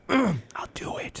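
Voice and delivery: very slow offer; mock Walken offering to mow a neighbor's lawn. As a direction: stretch the offer out slowly. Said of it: "Hey, Chris".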